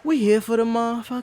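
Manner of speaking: high, loud laughing shout; high, laughing hype shout. Real, not acted. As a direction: burst out laughing mid-line. Hyped aside with laughter.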